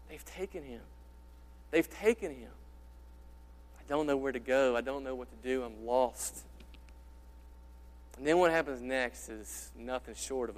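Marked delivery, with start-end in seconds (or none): 0.1-6.4 quiet, broken voice of grief, a hint of sobbing; grief-stricken. Mary at the empty tomb, softly breaking in grief. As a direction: let the words nearly crack with despair. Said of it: "her voice just cracking, sobbing".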